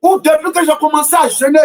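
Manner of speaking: rising preacher's cadence, questioning the crowd; impassioned sermon delivery; fervent preaching. Acted. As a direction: preach it, hammering the refrain. Preacher's rhetorical refrain.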